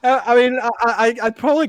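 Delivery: breathless laughing; can barely talk for laughing. Real, not acted. Still laughing at the accent.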